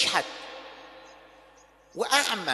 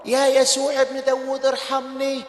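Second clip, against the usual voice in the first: calling out; 3 semitones higher than usual. Acted. Blind man calling Jesus.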